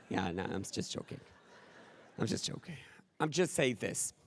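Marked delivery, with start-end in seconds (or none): 0.1-2.8 laughing it off. Real, not acted. Joke after a fake opener.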